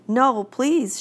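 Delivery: a scared schoolgirl's quick no; frightened plea. Acted. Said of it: "very frightened".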